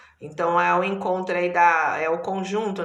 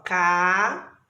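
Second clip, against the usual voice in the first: "Ca" stretched out on its own; isolated syllable. Shown as a demonstration. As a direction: draw out "Ca" as the first piece of a divided word. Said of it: "eu já tô dividindo". ("Ca" como sílaba isolada e alongada)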